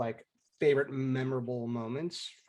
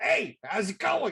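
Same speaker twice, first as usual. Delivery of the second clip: put-on loud, pitched-up New Jersey accent; 9 semitones higher, 5 dB louder than usual. Recalling another player's first words in the game: imitating a jersey accent. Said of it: "so Jersey, so Jersey".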